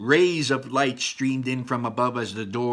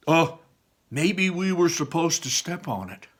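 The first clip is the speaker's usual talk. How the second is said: higher dawning realization; Barley realizing; 5 semitones higher than usual. Acted. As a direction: say it as it clicks. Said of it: "said Barley".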